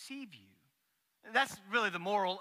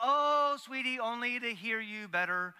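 grandma wolf; 4 semitones higher than usual. Retold or imitated. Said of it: "She's like".

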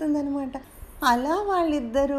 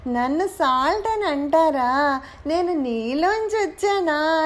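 happy; 3 semitones higher, slower than usual. Acted. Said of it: "సంతోషంగా".

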